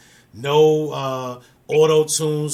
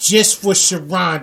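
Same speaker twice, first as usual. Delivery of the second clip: drawn-out Brooklyn New York accent; 3 semitones higher, 5 dB louder, slower than usual. Real, not acted. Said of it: "Now you got my New York accent coming out".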